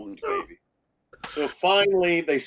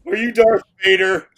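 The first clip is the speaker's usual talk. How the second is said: put-on timid little kid; 6 semitones higher, 4 dB louder, slower than usual. Voices the small kid Marty.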